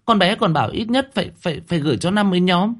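frightened stammer. A narrator's reading. Startled cousin stammering her defence to the landlady. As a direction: stumble over every word in fright. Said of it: "Nhụy Nhụy giật mình".

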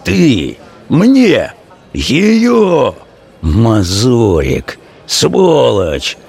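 a thug raging at his rival; Vaska erupting. Acted. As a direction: explode in rage, dragging words. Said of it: "потом разразился".

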